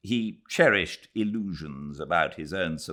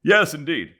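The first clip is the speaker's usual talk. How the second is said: a hint of reverent agreement; reverent chorus; 11 semitones higher, 8 dB louder than usual. The ladies agreeing with Nancy, lightly reverent. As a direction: murmur assent devoutly. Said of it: "came the reverent chorus".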